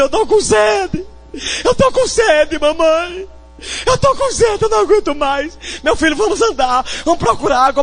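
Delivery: put-on high, tearful child's plea; crying child. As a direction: plead through tears like a thirsty boy. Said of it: "o menino começou a chorar". (menino chorando, voz aguda e sofrida)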